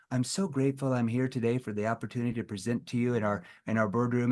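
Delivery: stiff salesperson. Retold or imitated. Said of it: "sound like a walking, talking salesperson".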